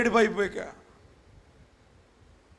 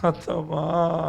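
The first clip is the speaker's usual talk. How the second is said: mock mourning wail; much slower than usual. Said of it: "అత్తగారు చచ్చిపోతే కోడలు ఎలా ఏడుస్తుంది".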